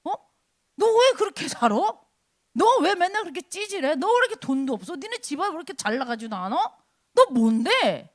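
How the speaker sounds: acted taunts, needling a believer; mocking. The world questions a Christian's worth, mocking. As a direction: belittle them with jeering questions. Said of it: "세상이 우리를 조롱하는 거는 어떻게 조롱합니까?".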